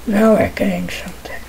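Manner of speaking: breathy hushed whisper. Acted. Whispering to the game. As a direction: whisper it like a secret. Repeats line, whispered then plain.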